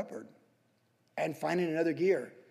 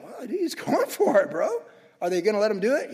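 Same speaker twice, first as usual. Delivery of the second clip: amused bystander; 3 semitones higher, 3 dB louder than usual. Retold or imitated. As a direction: marvel at him with a laugh. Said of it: "Can you imagine people like".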